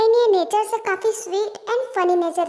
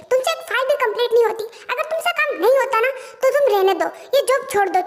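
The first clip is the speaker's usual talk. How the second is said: sharp, raised boss voice tearing into an employee; angry scolding. Acted. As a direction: scold her hard for the unfinished file. Boss scolds employee over file.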